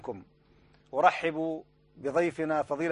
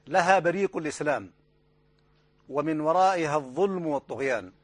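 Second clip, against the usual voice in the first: grave rhetorical editorial read; formal standard arabic; 3 dB louder than usual. Acted. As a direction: declaim it like a TV anchor. Anchor reads dramatic opening. (فصحى خطابية جادة)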